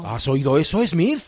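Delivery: slow, scheming pirate captain voice; villainous pirate captain. Acted. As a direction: gloat like a sly pirate captain. Pirate captain asks his mate.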